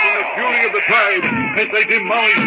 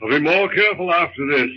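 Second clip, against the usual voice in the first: calm his frightened wife in a deep voice; husband's voice; 10 semitones lower than usual. Acted. John comforting wife.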